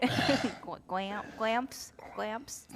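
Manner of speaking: struggling through fangs; stumbling on the word through fangs; wearing vampire fangs. Real, not acted. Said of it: "I can't say these words with these fangs".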